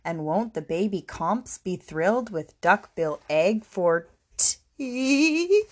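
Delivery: lightly voiced gloating to oneself; muttering to herself. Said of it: "and muttered".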